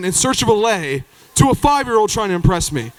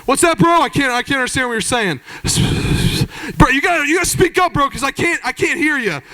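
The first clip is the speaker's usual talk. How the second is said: annoyed bro; 4 semitones higher than usual. Retold or imitated. Other group angry at Jeff.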